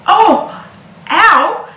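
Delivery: high yelps of sudden pain; acted pain. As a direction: cry out at a sharp stab in the stomach.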